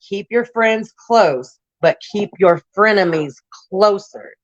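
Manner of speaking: slow, drawn-out proverb; quoting the proverb, half-sung and slow; saying. Retold or imitated. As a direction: spell the saying out slowly. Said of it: "they always say".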